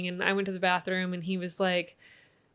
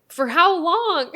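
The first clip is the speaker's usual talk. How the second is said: much higher, slow, laughing through it; giggling question; 10 semitones higher, 7 dB louder, much slower than usual. Retold or imitated. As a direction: ask through giggles like a curious boy. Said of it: "And he's like".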